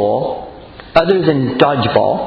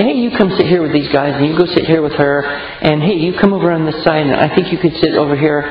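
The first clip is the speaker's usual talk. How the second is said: brisk teacher directing seats. Retold or imitated. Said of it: "but I would say".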